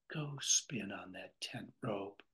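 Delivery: hushed whisper, no voice at all; whispered line. Shown as a demonstration. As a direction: breathe the line out like a secret. Lecturer rereads the line softly.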